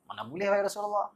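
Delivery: high, indignant companion's refusal; shocked protest. Acted. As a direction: recoil at the very idea. Companion protests Prophet's question.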